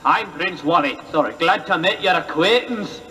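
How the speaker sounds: low, bad Scottish accent; hammy Scottish prince. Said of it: "the worst Scottish accent".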